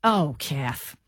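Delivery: put-on Canadian mum accent. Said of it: "She'd go, ... this would be her".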